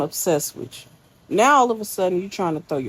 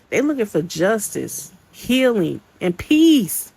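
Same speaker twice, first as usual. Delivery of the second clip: rising passion; 3 semitones higher, 4 dB louder than usual. Real, not acted. Passionate rant defending survivors.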